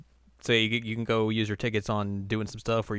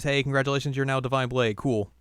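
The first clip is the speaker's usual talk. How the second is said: louder, higher mock congratulations; congratulatory retold quote; 4 semitones higher, 5 dB louder than usual. Podcaster voicing the master's praise to a student, congratulatory. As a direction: hand out praise in a raised voice.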